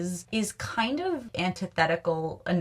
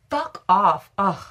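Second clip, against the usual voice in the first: slow, louder exasperated outburst; heated; 6 dB louder, slower than usual. Real, not acted. Fan fed up with how characters treat Jesse, slow angry outburst. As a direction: spit it out, fed up and annoyed. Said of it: "I get really, really heated about this".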